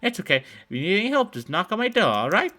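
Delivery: put-on old woman luring kids with cookies, high and sweet; sugary old woman. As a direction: coo like a too-sweet grandma. Old woman offers help.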